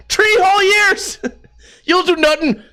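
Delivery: Irish fighter voice cracking into laughter; Conor McGregor, laughing. Retold or imitated. Jesus scolding the barber, mock Irish accent with laughs. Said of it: "he turned into Conor McGregor".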